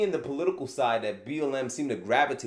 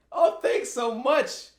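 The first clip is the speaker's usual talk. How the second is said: mock grateful racist; 6 semitones higher than usual. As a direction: ham up a sarcastic thanks from a bought-off racist. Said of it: "They'll get the money and say".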